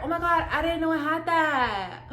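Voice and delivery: high, gushing, ending in a sharp gasp; overwhelmed excitement. Real, not acted. Finding an unexpected feature, overwhelmed and excited. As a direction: gush in disbelief, then gasp.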